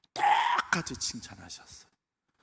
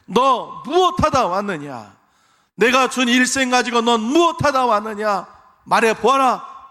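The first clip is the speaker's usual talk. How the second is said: God's slow demand; 10 semitones higher, 11 dB louder, slower than usual. Pretend. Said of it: "하나님께서 물어보실 거예요".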